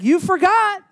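mimicked lady at window. Lady mouthing through car window.

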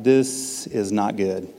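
low, slow sinking realization; foreboding aside to himself; uneasy dread. Retold or imitated. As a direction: say it slowly and low, sensing trouble. Dreading what he walked in on.

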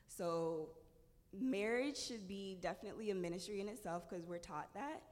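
strained, failing voice; voice giving out. Real, not acted. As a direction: talk through a tiring voice. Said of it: "my voice is giving out a lot".

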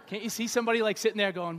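ordinary talk, nothing marked

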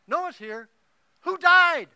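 put-on high, loud teasing old lady voice; old woman's joking retort. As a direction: tease him with a deadpan jab. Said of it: "And Mandela answers".

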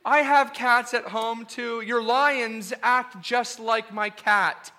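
sweet doting cat-lover voice; cat lady. Acted. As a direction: coo over the lions like a doting cat owner. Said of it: "this cat lady".

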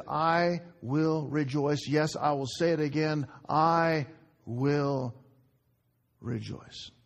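slow, deliberate resolve, sinking at the end; resolute self-talk. Acted. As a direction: talk yourself into it word by word. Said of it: "he's doing self-talk".

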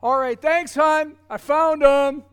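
loud, high, begrudging sing-song; admitting to his wife she was right, begrudgingly; grudging thanks. Retold or imitated. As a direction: force out the thanks through pride.

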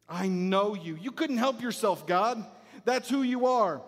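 emphatic, exasperated reproach; accusing Jonah. Acted. Jonah reproaching God for being merciful, accusing. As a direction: throw God's nature back at him. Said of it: "Jonah says".

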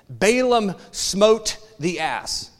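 very slow, grand scripture voice; a lightly voiced solemn Bible reading, drawn out slowly; King James reading. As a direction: intone it like old King James English. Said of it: "and then King James says".

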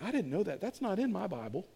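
soft, acted listener's aside; puzzled muttering. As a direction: murmur doubtfully to yourself. Voicing a baffled listener's reaction.

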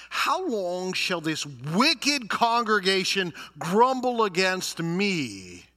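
stern divine demand, drawn out; God's rebuke. Acted. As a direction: thunder it out as an indignant God. Acts God rebuking the grumblers.

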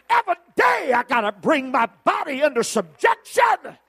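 high, loud, shouted preaching to the church; full-force preaching. Acted. Preacher exhorting the church to forgive, shouted full force. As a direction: lift the whole room with it.

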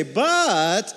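lifted "But" with a little hope; hopeful, lifted "But". Shown as a demonstration. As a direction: say it like hope just arrived. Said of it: "there's a little hope in our voice".

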